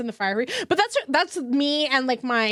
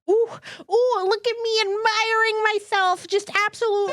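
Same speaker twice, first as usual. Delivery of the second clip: mock vain admiring; 10 semitones higher than usual. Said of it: "I'm like".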